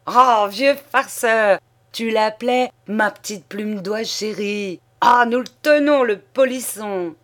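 loud, high teasing shout; lightly voiced jovial mocking cry; choking with laughter. A narrator's reading. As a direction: crow it out while half-suffocated with laughter. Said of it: "suffocant, criait".

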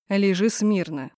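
icy command. Acted. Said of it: "бросил ледяным тоном".

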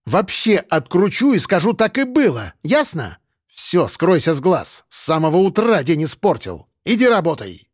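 threaten, then send him away in disgust; exasperated scolding; irate dismissal. Acted.

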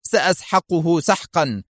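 slow, resentful vow; grim anger. Acted. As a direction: grind the threat out slowly. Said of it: "في حنق".

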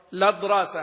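"لضراسة" run together, starting straight on the lam; connecting hamza dropped. Shown as a demonstration. Teacher shows the transfer reading to students, "لضراسة" without hamza. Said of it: "بالنقل مع حذف همزة الوصل".

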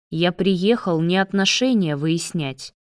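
normal talking voice

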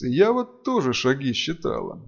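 ordinary delivery

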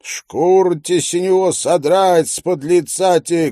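high squealing peasant shriek; squealing milkmaid. A narrator's reading. Milkmaid screams abuse about the child, high squeal. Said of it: "кричит".

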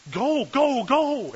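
high, loud urging cry; acted-out shout to get moving; urgent shouting. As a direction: hurry the crowd through. Fleeing people urge each other on.

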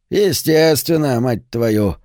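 a sudden snarling growl; menacing growl. Acted. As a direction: snap it out like a growl. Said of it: "Голос Писа на секунду превратился в грозный рык".

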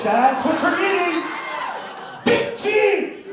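loud shout. Real, not acted. Shouting at crowd.

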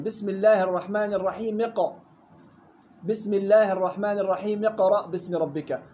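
الرحيم linked straight into اقرأ, "raheemi-qra'"; dropped hamza. Shown as a demonstration. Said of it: "يكسر التنوين لالتقاء الساكنين". (الرحيم اقرأ بوصل دون همزة)

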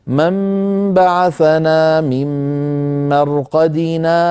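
slow chanted recitation with a short silent pause after مرقدنا, no breath; recitation with saktah. Shown as a demonstration. Teacher shows the brief pause, in slow chanted recitation. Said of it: "فيسكت قليلًا هكذا".

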